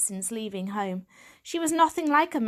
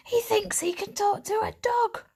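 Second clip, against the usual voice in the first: much higher, laughing scorn; mocking laugh; 13 semitones higher than usual. A narrator's reading. Stray cat laughing at the young cat, scornful. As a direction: laugh the words at him. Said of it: "The black and white cat laughed out loud".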